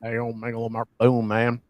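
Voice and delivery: mumbled Southern twang; mock Southern accent. Echoes Southern accent bit.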